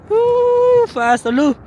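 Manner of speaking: very high, loud whooping; thrilled whoop. Real, not acted. Rider speeding downhill, loud high whoop.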